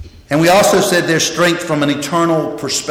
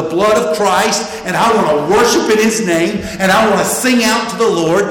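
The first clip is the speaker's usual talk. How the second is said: mounting fervor, raised pitch toward the end; earnest worshipper listing heartfelt wishes; eager declaration; 3 semitones higher than usual. Acted. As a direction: declare each wish with building devotion. Voices devoted worshipper's eager motives.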